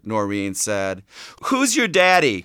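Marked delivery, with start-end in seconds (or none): 1.4-2.4 higher-pitched imitation of a squawking parrot; mimicking the bird's squawk. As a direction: squawk it lightly, like a pet parrot. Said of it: "Carlene squawked".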